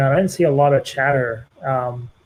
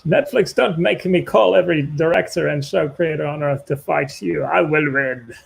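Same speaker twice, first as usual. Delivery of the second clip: hammy stage actor. Acted. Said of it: "can you act this out for me".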